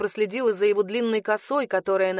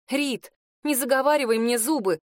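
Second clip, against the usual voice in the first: mild anger; 4 semitones higher than usual. Acted. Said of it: "разозлилась я".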